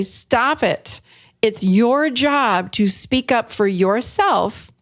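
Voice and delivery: a half-playful yelled stop it; mock yell. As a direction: snap stop it at them like a mock scold.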